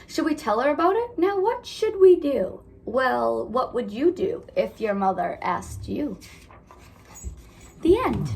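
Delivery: lively storybook read-aloud; reading to children. A narrator's reading. Teacher reading a picture book to her class, lively.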